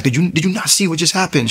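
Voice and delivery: high-pitched, frantic question; retold freak-out, urgent and high. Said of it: "I'm freaking out".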